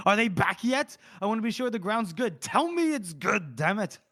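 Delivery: high, insistent demanding voice; acted yelling. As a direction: press for an answer, exasperated. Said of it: "He's, like, yelling at".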